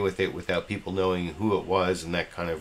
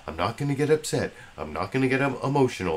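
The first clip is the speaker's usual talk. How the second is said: imitating McCain; 5 semitones higher, faster than usual. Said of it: "I say to myself".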